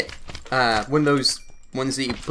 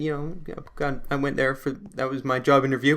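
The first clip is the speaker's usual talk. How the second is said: soft, hesitant answer, stumbling along; timid mumble; 5 dB quieter than usual. Retold or imitated. Teen nervously telling the stranger where his interview was, soft mumble. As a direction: barely dare to answer.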